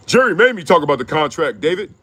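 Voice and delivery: whiny excuse. Retold or imitated. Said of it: "You sound like you got caught cheating".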